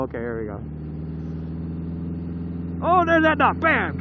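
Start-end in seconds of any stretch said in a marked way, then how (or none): 2.8-4.0 excited. Real, not acted. Spotting the dog.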